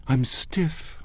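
high, whiny complaint; complaining. Acted. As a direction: grumble about being stiff. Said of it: "she complained".

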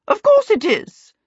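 high, loud aunt voice; lightly voiced, emphatic aunt. A narrator's reading. Aunt Sempronia backing Charmaine about the safe house, emphatic. Stately aunt pronouncing firmly.

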